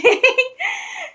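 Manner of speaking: high-pitched burst of laughter; acted laughing fit. Mom laughing on seeing her, high laughter. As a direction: laugh high and loud in retelling.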